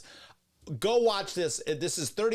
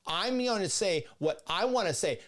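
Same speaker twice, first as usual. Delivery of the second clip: mock empowered woman; 4 semitones higher than usual. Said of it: "that's such female behavior too".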